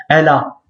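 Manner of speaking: "L A" run together as "la"; wrongly linked. Shown as a demonstration. Teacher showing a common mistake, "L A" linked. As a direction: slide the L straight into "A". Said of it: "beaucoup, ils vont dire".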